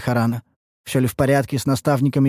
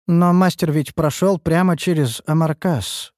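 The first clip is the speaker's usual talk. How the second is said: upset; 6 semitones higher than usual. Acted. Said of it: "расстроенно проговорила Лейна".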